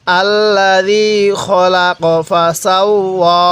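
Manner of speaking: slow chanted আল্লাযী খলাক ফাসাওয়া; slow recitation. Shown as a demonstration. Teacher reciting verse for pupils to repeat, slow. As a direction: lead the class through the verse slowly. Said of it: "আরেকবার পড়ুন".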